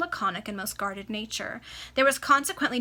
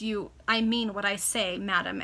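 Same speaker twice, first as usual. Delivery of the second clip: stern; 3 dB louder than usual. Acted. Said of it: "added the baronet sternly".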